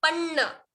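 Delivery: पन्न with a held double n. Shown as a demonstration. Teacher pointing out double letter, careful pronunciation. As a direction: hold the न in पन्न before releasing. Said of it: "यहाँ पर double न है".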